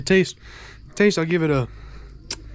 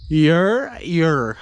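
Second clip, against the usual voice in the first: hype cheer; 4 semitones higher, 4 dB louder than usual. Real, not acted. Hyping up the audience.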